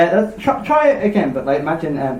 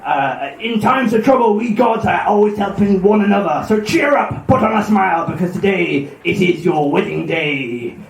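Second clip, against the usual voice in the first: put-on Cornish pirate accent. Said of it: "it sounds very Cornish now".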